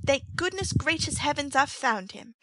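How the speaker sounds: high, breathless gushing thanks; staged hysterics. A narrator's reading. Nancy performs relief to the crowd, high and gushing. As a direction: pile it on for the onlookers. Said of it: "incoherent exclamations".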